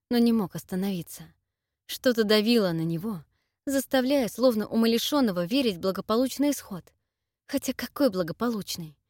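ordinary delivery, nothing marked

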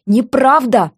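high, wounded protest; trembling voice. A narrator's reading. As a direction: complain like an injured victim. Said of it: "продолжала Сильва дрожащим голосом".

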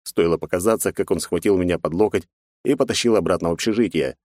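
usual speaking voice

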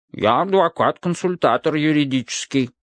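labored, bubbling barrel voice; gurgling. Acted. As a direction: gurgle the words out with effort. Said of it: "с трудом пробулькала бочка".

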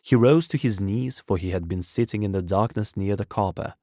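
usual speaking voice

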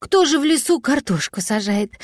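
a touch of indignant protest; mild indignation. Acted. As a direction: huff it out, lightly outraged. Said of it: "возмутился кот".

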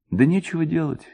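usual speaking voice

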